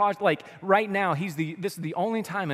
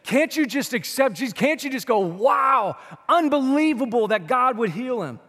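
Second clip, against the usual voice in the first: sarcastic; 5 semitones higher, 4 dB louder than usual. Retold or imitated. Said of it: "gets sarcastic with him".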